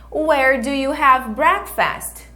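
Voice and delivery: slow, clear teacher model; slow repeat-after-me. Shown as a demonstration. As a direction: model it slowly for the class.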